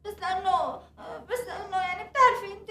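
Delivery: tearful. Acted. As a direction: let the tears take the voice. Wife tearful, fading. (كلام باكٍ بصوت خافت)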